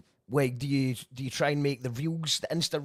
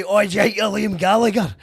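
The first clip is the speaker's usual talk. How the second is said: mocking jibe; 4 semitones higher, 7 dB louder than usual. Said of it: "they would say".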